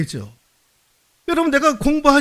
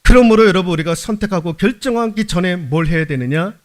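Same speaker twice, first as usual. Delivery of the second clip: ordinary talk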